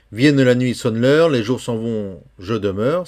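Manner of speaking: vers repris plus fort; poem reading. Shown as a demonstration. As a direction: lire le refrain avec force. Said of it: "lecture du poème". (lecture de poème appuyée)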